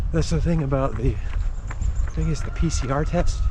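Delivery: talking while running, a bit breathless; while jogging. Real, not acted. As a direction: speak as you jog outdoors. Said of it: "I'd be running anyway".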